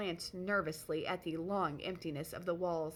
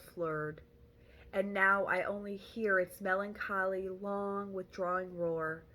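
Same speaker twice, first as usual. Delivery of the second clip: poem reading. Acted. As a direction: read the verse gravely and deliberately. Montag reads the poem aloud.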